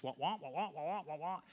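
muffled trombone wah-wah; mock cartoon teacher wah wah; Charlie Brown's teacher. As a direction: mimic the cartoon teacher's droning. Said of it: "It sounded like Charlie Brown's teacher".

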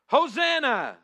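loud, high cry of praise; joyful crowd shout; shouted hosanna. Acted. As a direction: call it out like the crowd. Crowd crying out in reading.

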